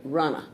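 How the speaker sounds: "Runner" said like English runner, ran-ner; Spanish rana as runner. Shown as a demonstration. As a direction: give "Runner" the English runner sound. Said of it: "That's where you pronounce this word".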